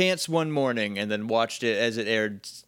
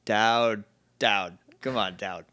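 put-on lowered, clumsy Boston accent; bad Boston accent; 3 semitones lower, slower than usual. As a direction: fake a Boston accent badly. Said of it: "like someone who's never heard a Boston accent".

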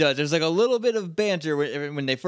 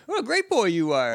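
put-on prim old robot teacher; 5 semitones higher than usual. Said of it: "Old little robot Professor McGonagall".

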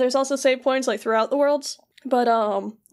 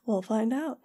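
whispered tease; soft, conspiratorial whisper; teasing hush; 6 dB quieter than usual. Pretend. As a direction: whisper it like a secret spoiler. Teasing hushed hint about the plot.

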